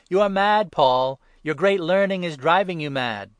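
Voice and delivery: shouted high and loud, cutting in; loud outburst. A narrator's reading. Festus interrupts Paul's defense, loud accusing shout. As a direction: burst out at Paul as if he's lost his mind. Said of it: "Festus called out loudly".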